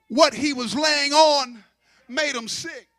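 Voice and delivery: ordinary talk, nothing marked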